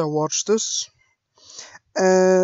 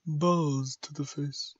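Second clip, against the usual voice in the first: slow, low, soft robot attempt; a rough try at a robot; robotic voice; 4 semitones lower, 7 dB quieter, slower than usual. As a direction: keep it slow, lower and mechanical. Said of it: "I can't do a robotic voice".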